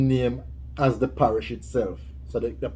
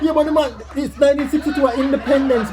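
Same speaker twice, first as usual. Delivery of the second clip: laughing while talking; 9 semitones higher than usual. Real, not acted. Laughing while correcting her.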